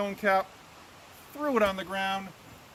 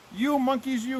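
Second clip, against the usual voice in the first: high, loud scolding; scolding peddler; 6 semitones higher, 4 dB louder than usual. A narrator's reading. Peddler to the cap-stealing monkeys, scolding. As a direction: tell off naughty monkeys, voice raised. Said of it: "That made the peddler angry".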